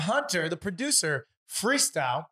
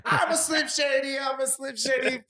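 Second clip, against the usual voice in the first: impression of a rapper; 4 semitones higher than usual. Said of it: "anything that the rapper already did".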